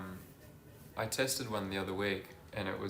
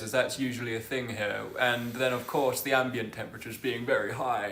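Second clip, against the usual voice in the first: Sky Sports reporter voice. Pretend. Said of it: "put on my Sky Sports, uh, reporter voice".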